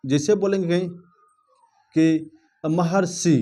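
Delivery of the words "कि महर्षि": महर्षि said slowly, every sound clear; slow demo of महर्षि. Shown as a demonstration. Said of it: "अब महर्षि बोलेंगे तो". (महर्षि धीरे धीरे साफ़ उच्चारण)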